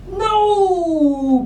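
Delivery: a mildly voiced booming no, high. A narrator's reading. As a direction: boom out a no as the stink bug. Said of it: "boomed the stink bug".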